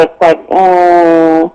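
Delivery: muffled, like a hand over the mouth. Real, not acted. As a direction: speak through a covered mouth. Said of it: "kind of muffled all of a sudden with sound quality".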